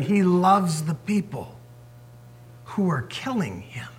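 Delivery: hushed unvoiced whisper. Real, not acted. Preacher describing Jesus' love, whispering. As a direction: drop to a whisper.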